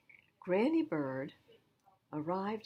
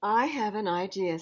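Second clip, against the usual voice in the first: grandma's voice; 3 semitones higher, 7 dB louder than usual. Acted. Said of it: "said Grandma".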